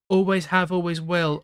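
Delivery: put-on angry ex-girlfriend.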